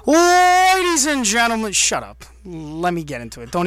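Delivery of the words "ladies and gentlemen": booming high showman opener; ringmaster. Pretend. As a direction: announce it like a circus ringmaster. Opening the show like an announcer.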